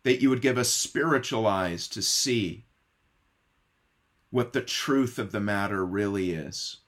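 soft, hushed pastoral prayer voice. Acted. Pastor praying before the sermon, softly and reverently. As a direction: pray quietly and reverently over the congregation.

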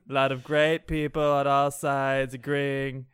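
lightly put-on politician's boast; mock boastful politician. Boasting that Iceman is the greatest comic, mock politician. Trump parody after fake news joke.

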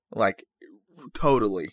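lightly voiced, low valley girl; a hint of valley-girl slang delivery. Host joking about game prices, mild valley girl. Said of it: "That's my valley girl".

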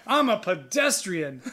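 slow, drawn-out mock protest; mocked scooter rider. Scooter rider insists to driver, mock indignant. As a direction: mimic the rider's indignant claim. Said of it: "just fucking angry".

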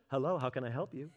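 sweet polite phone-answering voice; customer-service hello. Retold or imitated. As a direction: switch to a put-on friendly phone greeting. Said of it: "Phone voice in an instant".

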